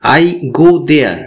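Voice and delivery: very slow, each word spaced out for learners; teacher says it slowly so students can copy; slow English model sentence. Shown as a demonstration. Teacher models the English slowly for beginners. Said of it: "আমি সেখানে যাই".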